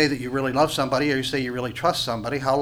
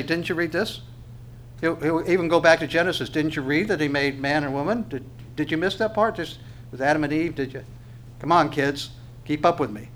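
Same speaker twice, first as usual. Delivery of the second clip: lightly teasing, mock-incredulous; sarcastic Jesus. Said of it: "you can hear him kind of saying that".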